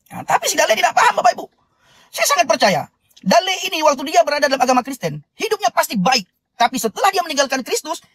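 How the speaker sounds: earnest sermon voice, building and lifted; preaching. Acted. Host preaching to live viewers about Dale, earnest sermon. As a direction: preach it to the congregation with conviction.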